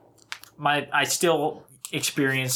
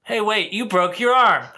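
imitating grandpa; 7 semitones higher, 4 dB louder than usual. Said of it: "finally Grandpa says".

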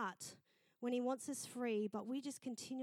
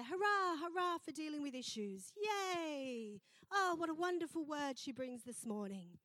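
mock cheering; 5 semitones higher than usual. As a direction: cheer with exaggerated delight. Preacher acts out a cheering crowd.

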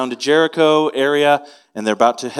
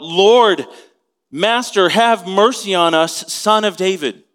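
raised, pleading call to the master; crying out for mercy; 5 semitones higher, 4 dB louder, slower than usual. Retold or imitated. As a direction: call out higher and louder, begging. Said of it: "they cried out".

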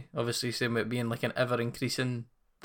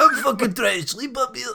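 much higher, louder annoyed yell; angry shout; 9 semitones higher, 5 dB louder than usual. Acted. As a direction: shout from the back rows. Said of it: "quite a good wee skit".

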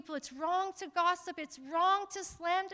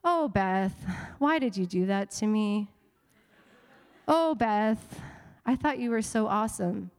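mock whining; 7 semitones lower than usual. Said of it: "I'm being facetious".

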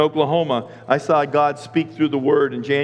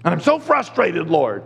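frustrated whining. Retold or imitated. Pastor confesses frustration to God, mock whining. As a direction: grumble it to the Lord. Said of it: "I'm always whining to God".

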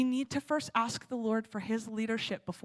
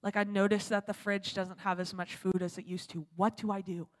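asking the Lord; 4 semitones lower, 7 dB quieter than usual. Retold or imitated. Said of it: "she starts asking the Lord".

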